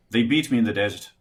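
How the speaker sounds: lilting Irish accent; words tripping off the tongue, Irish. Shown as a demonstration. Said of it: "try an Irish".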